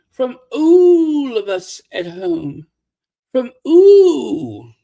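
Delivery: loud swooping imitation, "all" drawn into "ooh"; exaggerated "ooh". Showing how she has to say it, exaggerated "ooh". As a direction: swell hard on a long "ooh" for "all". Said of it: "You have to say it like ooh".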